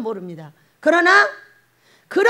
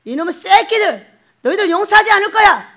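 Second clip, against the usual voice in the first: angry curse; 6 semitones higher, 6 dB louder than usual. Acted. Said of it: "저주를 퍼붓어요".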